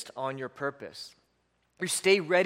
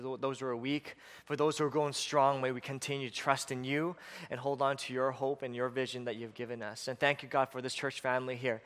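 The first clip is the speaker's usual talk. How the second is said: congregational prayer; 2 semitones lower than usual. Acted.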